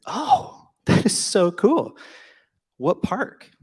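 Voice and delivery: high, slow, starry-eyed gush; gushing fan. Retold or imitated. Justin gushing to the Disney stranger at dinner, high starry-eyed gush. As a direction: gush like a theme-park fan meeting staff.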